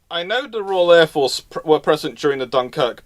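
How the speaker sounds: ordinary talk, nothing marked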